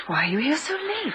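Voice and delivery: hushed, breathy whisper; whispered question. Acted. Secretary asks boss in dark office, whispering. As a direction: whisper it so no one hears.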